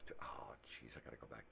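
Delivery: soft, low self-grumble; hushed, mock-frustrated aside; muttered typing mishap. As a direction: grumble under your breath over a mistake. Acts fumbling at a typewriter.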